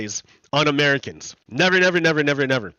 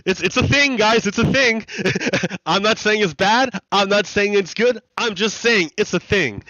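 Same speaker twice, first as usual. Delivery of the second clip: laughing disclaimer; 3 semitones higher than usual. Real, not acted. Recovering from a laughing fit.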